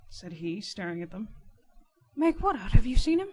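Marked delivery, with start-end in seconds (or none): 2.1-3.3 high, loud, eager demand; raised-voice urgency; urgent questioning. Acted. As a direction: press for news at once. Urgent questioning of returning Riderhood.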